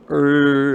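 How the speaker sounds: imitated sound. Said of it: "it's just that one sound".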